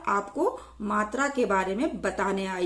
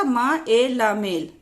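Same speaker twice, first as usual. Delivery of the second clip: slow spelling-out; slower than usual. Shown as a demonstration. Teacher spelling for learners, slow spelling-out. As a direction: slowly, sound by sound.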